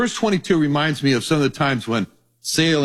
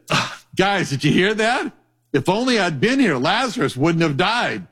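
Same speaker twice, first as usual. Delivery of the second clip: raised pitch, half-mock exasperation at the disciples; playful Jesus voice; 4 semitones higher than usual. Jesus chiding his disciples, higher mock-exasperated voice. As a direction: scold the disciples, teasing and incredulous.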